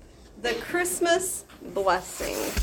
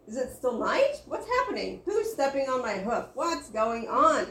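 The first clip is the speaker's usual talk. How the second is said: startled animals; 2 semitones higher, 6 dB louder than usual. Acted. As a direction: play a barnyard in a sudden uproar. Woken animals all talk at once.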